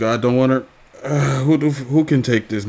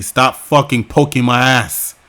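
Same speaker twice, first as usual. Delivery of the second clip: mock yell; 3 semitones higher, 6 dB louder than usual. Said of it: "a scream of you saying".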